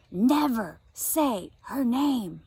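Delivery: put-on very slow, grave old woman; stern warning. Grandma slowly warns Josie never to say the name. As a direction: drag each word out as a warning.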